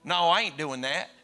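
imitated Arkansas elder turning someone down; deep Arkansas accent. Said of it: "this deep Arkansas thick accent".

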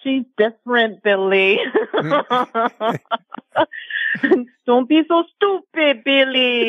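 a hint of Rosie Perez, Brooklyn lilt; Rosie Perez impression. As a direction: lightly quote Rosie scolding Billy. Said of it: "I gotta get the higher pitch".

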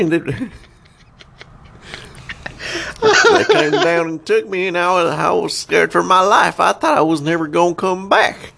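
high-pitched mock redneck abductee; redneck guy. Redneck recounting fear of his alien abduction, high hammed-up voice. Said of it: "like, redneck guy".

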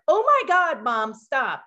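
a groaning daughter, done high; eye-rolling teen. Retold or imitated. Daughter voiced, mortified.

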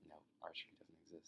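fast breathy whisper. Acted. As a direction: hiss it under your breath. Boss whispers the firing.

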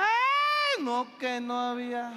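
high, loud panicked cry; screaming passenger. Retold or imitated. Passenger screaming in turbulence, high panicked cry. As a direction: scream in fear as the plane drops. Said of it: "Y grita".

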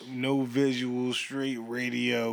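slow, raspy late-night radio host. Acted. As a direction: ease into a late-night DJ delivery. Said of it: "he put the A M radio voice on".

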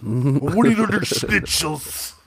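slow, drawn-out mock German; German-sounding accent. Comic asked to say wiener schnitzel, slow German-sounding accent. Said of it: "Wait, now that's German".

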